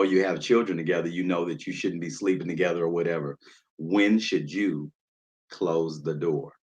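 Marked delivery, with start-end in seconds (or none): 3.8-6.5 slow, drawn-out question, each word weighed; slow emphatic question. Shown as a demonstration. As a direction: let "When should you close the door?" hang slowly. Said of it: "That's the question tonight".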